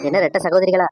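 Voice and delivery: என்ன-வை நீட்டி அழுத்தி கேலியாக; ரெட்ட சகோதரிகளா என்று சீண்டும் தொனி; கிண்டலாக. Acted. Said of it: "கிண்டல் பண்றியே". (இரு சகோதரிகளைப் பார்த்து கிண்டலாக)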